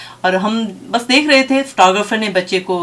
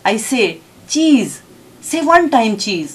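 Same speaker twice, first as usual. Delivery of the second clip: retold scolding in short, insistent bursts; angrier mother; 3 semitones higher, slower than usual. Mother orders her sulking child to pose, crossly. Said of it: "ماں نے ذرا اور غصے سے کہا".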